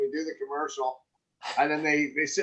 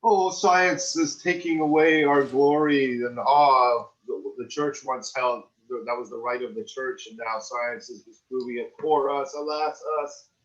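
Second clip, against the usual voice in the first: mock lament; 2 semitones higher than usual. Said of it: "it's like".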